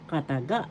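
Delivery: "Kataga" with the accent on final GA; stress on third syllable. Shown as a demonstration. Teacher showing where the accent falls, "Kataga" stressed on GA. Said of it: "The accent is in the third syllable".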